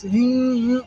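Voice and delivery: high, small mock whimper; little hummed pretend cry; imitated whimper. Shown as a demonstration. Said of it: "If they crying".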